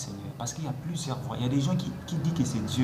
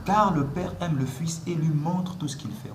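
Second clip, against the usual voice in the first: slow emphatic reread. Shown as a demonstration. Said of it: "Voyez, le mot ici".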